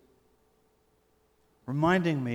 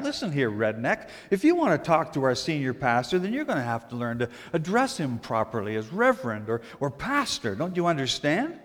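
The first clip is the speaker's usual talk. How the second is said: snappy retort; 3 dB louder than usual. Retold or imitated. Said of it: "she snapped back".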